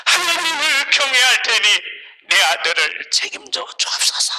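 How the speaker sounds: acted, insistent tearful prayer. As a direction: cry out to God as a desperate parent. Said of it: "눈물로 기도하는 겁니다".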